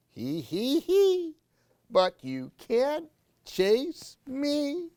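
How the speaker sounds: mock giggle rising high; giggling boy. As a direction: tease like a child running away. The boy giggles.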